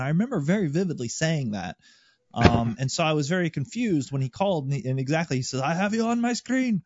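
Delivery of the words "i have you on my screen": raised pitch, mildly mocking quote; imitated controller. Controller claiming he sees the pilots, lightly mocked indignation. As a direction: lightly mimic an indignant radio call. Quoting the irate controller's radio call.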